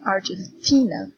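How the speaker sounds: Argentina with the stress on "ti"; Argentina, leaning on the syllable "ti"; stress on third syllable. Shown as a demonstration. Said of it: "T is the stressed syllable".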